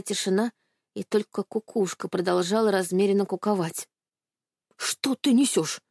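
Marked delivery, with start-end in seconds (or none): 4.8-5.8 hiss. A narrator's reading. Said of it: "прошипел дед".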